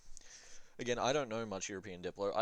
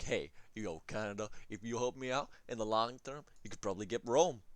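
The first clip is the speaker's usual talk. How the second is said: mock pitch. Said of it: "Speak like that to him".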